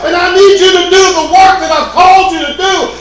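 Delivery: lightly voiced God urging Saul to the work. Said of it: "He said".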